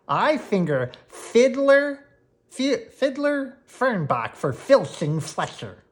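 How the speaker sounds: loud, slow yell. Acted. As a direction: yell it while running uphill. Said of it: "yelled Gwen".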